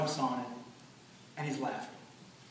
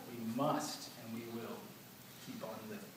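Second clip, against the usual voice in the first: hushed; 3 semitones lower, 8 dB quieter than usual. Real, not acted. Closing words of a eulogy.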